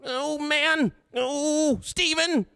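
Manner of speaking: very high whining wail, mock terror; cowardly whimpering, high and drawn out; Lars impression. Host plays Lars scared of the diamonds, high panicky whine. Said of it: "you guys like my Lars impression?".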